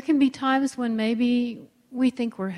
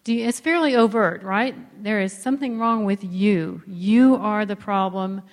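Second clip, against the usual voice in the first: mildly scolding parent, fast and a bit louder; 3 dB louder than usual. Retold or imitated. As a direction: wag a finger at your spouse in a lightly scolding tone. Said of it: "Do you hear that kind of parent voice there?".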